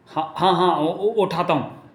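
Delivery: hesitant, stuttering compliance; flustered stammer. Acted. Scolded fat king agrees to lift the rock, stammering. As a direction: trip over the first syllables as you obey.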